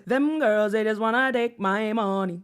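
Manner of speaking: a light Nigerian accent impression; quoting a rapper's lyric in a lightly Nigerian accent; mock Nigerian accent. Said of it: "I also sense a Nigerian accent on a song".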